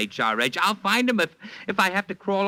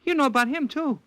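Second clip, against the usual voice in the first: jumps up high in surprise; shocked and thrown off balance; startled disbelief; 10 semitones higher than usual. Acted. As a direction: caught off guard, voice leaping up. Leo startled Mona knows everything.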